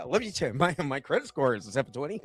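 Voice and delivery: low villain voice, laughing; quiet cartoon villain voice; Skeletor voice. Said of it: "my Skeletor voice".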